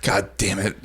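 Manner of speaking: soft, exasperated aside to himself; muttered exasperation. Retold or imitated. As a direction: swear under your breath, fed up. Retold exasperated reaction under breath.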